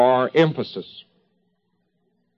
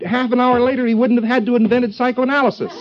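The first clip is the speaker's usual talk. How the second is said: laughing; 9 semitones higher than usual. Real, not acted. Laughing at his own joke.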